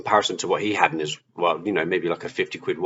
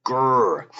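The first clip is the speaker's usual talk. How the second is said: higher-pitched mock growl of anger; righteous angry growl; 5 semitones higher than usual. Recalling his righteous anger over friend's watch, mock angry growl. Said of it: "I just felt righteous anger".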